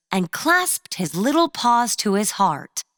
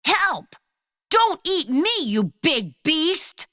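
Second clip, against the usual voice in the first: panicked; 8 semitones higher than usual. Acted. Dog grabs Cheddar in jaws.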